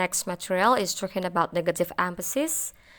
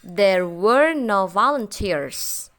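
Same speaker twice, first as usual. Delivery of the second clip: slow example read; 5 dB louder, much slower than usual. Shown as a demonstration. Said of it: "an interpretation like".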